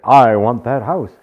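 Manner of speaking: loud, slow, utterly certain claim; confident. Retold or imitated. Imitating someone sure they want a house, loudly. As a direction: state it like it's already yours. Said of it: "You say it with such confidence".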